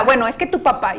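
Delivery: madre que culpa al padre, imitada a la ligera; madre quejosa imitada. Retold or imitated. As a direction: imita a la mamá que se queja. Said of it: "el padre alienador puede culpar". (madre alienadora culpando al papá, imitada)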